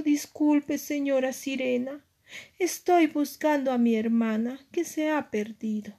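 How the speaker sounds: a touch of anxious pleading; worried little mermaid. Acted. Aria explains herself to the wicked mermaid, mildly worried. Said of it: "muy preocupada".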